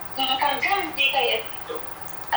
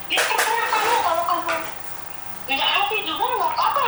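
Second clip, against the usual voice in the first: retold angry retort; 5 semitones higher than usual. Maid retelling how she angrily answered her employer, raised and sharp. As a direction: replay your fed-up retort with some heat. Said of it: "sambil saya marah kayak gitu".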